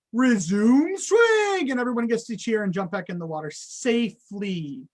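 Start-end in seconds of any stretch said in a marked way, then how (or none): 0.1-1.7 slow drawn-out loud call. Shown as a demonstration. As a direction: announce across the pool. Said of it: "we'd be like".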